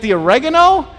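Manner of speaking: loud questioning call; puzzled shout back. Retold or imitated. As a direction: call back confused from another room. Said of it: "She's like".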